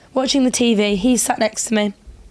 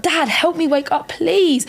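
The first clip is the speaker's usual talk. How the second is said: drawn-out, higher mock plea; retold plea; 5 semitones higher, slower than usual. Daughter calls to her napping dad for help, pleading. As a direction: re-enact begging for help, stretching the words.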